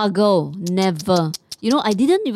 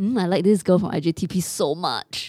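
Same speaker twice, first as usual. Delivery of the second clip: normal talking voice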